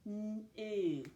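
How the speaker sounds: "N-oo" stretched, a long hummed n then a long oo; sounded out. Shown as a demonstration. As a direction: sound out "N-oo" slowly, sound by sound. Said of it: "Let's sound out that first syllable".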